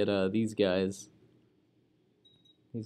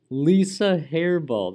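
amused; 6 semitones higher, 7 dB louder, slower than usual. Real, not acted. Savouring a funny character name.

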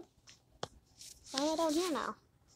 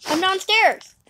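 yelling across the room; slower than usual. Real, not acted. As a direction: call up to her, slowly. Calling out to Didi.

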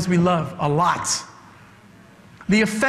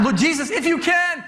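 mock doubting prayer; 8 semitones higher than usual.

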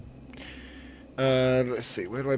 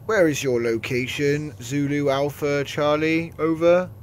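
louder radio operator call; over walkie talkie; 3 semitones higher, 6 dB louder than usual. Pretend. Radio callsign talk.

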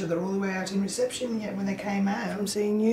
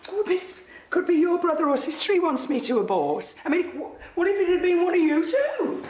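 distraught outburst; 5 semitones higher than usual. Acted. Mother protesting to her son about the unborn baby, distraught. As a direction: build in hurt and outrage, voice climbing.

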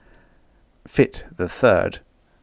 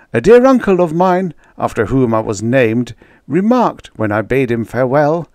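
high, anxious storyteller voice; fretful baker; 6 semitones higher, 4 dB louder than usual. Acted. Baker recounting his voyage to the crew, high and anxious. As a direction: keep the nervous baker's pitch up.

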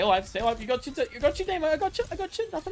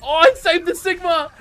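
excited cry; 6 semitones higher, 7 dB louder than usual. Real, not acted. Accidental save in game.

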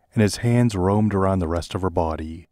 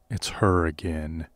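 sad; 3 semitones lower, 5 dB quieter than usual. Acted. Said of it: "he said sadly".

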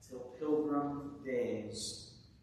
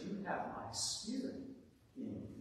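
very soft, falling away at the end; tender, hushed promise; voice of Jesus; 4 semitones lower, 9 dB quieter than usual. Acted. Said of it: "But the voice of Jesus says".

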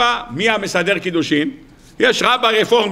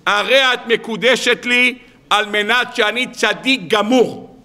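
mock solemn vow; 3 semitones higher, slower than usual. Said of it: "ניגש לרעייתו לעתיד ואומר לה".

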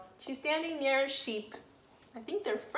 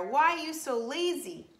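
jaguar voice; 4 semitones higher, 3 dB louder than usual. Acted. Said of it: "said the jaguar".

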